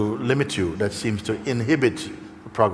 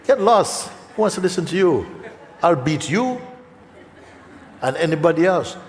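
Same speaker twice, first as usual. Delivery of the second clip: defiant retort; 7 semitones higher than usual. Acted. Defiant runner answers the doubter.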